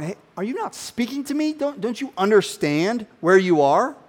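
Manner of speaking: lightly voiced offended governor; indignant Pilate. Pilate scolds silent Jesus, mock indignation. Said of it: "Pilate's going".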